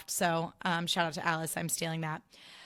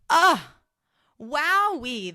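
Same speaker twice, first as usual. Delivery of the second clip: delighted squeal; 8 semitones higher, 8 dB louder, much slower than usual. Real, not acted. Delight at cheap laser price.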